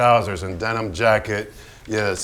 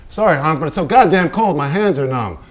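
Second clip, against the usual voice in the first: raised, a bit higher protest; complaining; 4 semitones higher, 5 dB louder than usual. Acted. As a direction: plead that it's too cold. Pollock complaining of cold.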